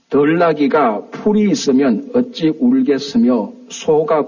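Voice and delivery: slow, measured Bible reading; scripture reading. Acted. Preacher reading Job's lament to the congregation, measured scripture reading. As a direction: read the verses out deliberately.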